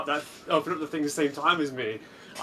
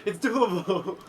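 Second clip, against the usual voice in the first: excited; 3 semitones higher than usual. Retold or imitated. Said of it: "I was like".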